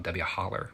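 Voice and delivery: "Holler" with an added hard R at the end; Appalachian pronunciation. Shown as a demonstration. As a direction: say "Holler" the mountain way, ending on R. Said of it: "but in the mountains you holler".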